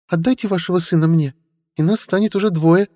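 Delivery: put-on high, sly young woman; young woman's voice. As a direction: tease with sly charm. Witch Stella speaks.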